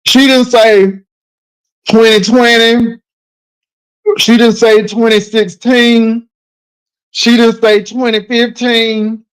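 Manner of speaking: loud and slow, each word hammered; emphatic loud insisting. Real, not acted. Host insisting to Nicole she didn't say twenty twenty, loud and emphatic. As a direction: drive it home, loud and deliberate.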